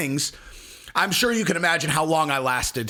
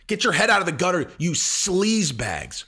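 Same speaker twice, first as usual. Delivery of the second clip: mock scolding; 3 semitones higher than usual. Scolding viewers in mock outrage.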